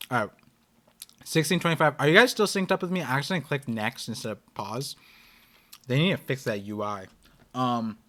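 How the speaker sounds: talking through a mouthful; chewing while speaking; mouth full. Real, not acted. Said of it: "I'm talking with my mouth full".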